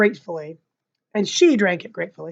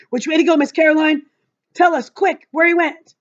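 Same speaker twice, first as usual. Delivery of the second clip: excited; 7 semitones higher, 4 dB louder than usual. Acted. Boy eager to catch mouse.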